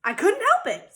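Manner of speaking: high, loud and flustered; loud panicky excuse; caught out. A narrator's reading. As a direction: stammer an excuse when caught. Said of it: "said Paul".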